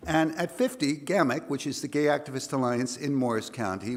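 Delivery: hoarse, gravelly voice. Real, not acted. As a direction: voice worn rough from singing. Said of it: "if I sound a little gravelly".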